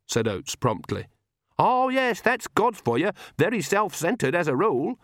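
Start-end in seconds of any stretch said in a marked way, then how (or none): 1.6-5.0 put-on high, sarcastic old woman; mock the gods with a sneer; scornful old witch. A narrator's reading. Granny mocks gods.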